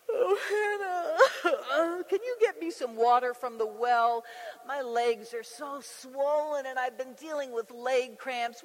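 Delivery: a hint of a catty rival, whiny and put-upon; lightly voiced smug pregnant wife, laughing; mock pregnant rival. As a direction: lightly mimic a taunting rival who is playing the victim. Voicing Peninnah mocking Hannah.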